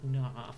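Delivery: "nah" as a drawn-out Australian no, sliding towards R; classic Aussie vowel. Shown as a demonstration. Streamer mocking the Aussie R-like ending, broad "nah". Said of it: "addition of the R at the end".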